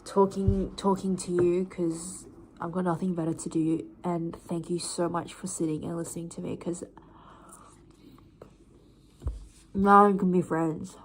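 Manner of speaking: talking with mouth full; words round a bite of food. Real, not acted. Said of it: "Why are you talking with a mouthful of food?".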